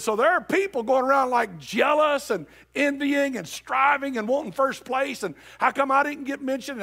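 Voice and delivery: high, loud whiny complaining, building to a shout; mock jealous complainer. Preacher mocks jealous church members begging for attention, high whiny shout. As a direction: whine like a member jealous for the spotlight.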